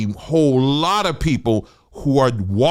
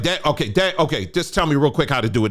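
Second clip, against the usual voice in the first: higher, fast eager begging to his father; pleading hurry; 5 semitones higher than usual. Retold or imitated. A son rushing his dad for a shortcut, hurried higher pleading. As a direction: rush him, lightly voiced impatient son. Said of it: "I could have been like".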